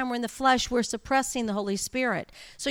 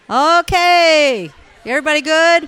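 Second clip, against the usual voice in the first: loud call to gather the room; 5 semitones higher, 14 dB louder, slower than usual. Real, not acted. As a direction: call them back to attention. Calling the group back.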